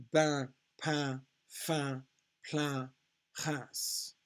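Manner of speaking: "Bain, pain, fin, plein" rhymed on a nasal vowel; nasal UN sound. Shown as a demonstration. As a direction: model French "Reims" as nasal "rans" with S sounded. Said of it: "spellings for this un sound".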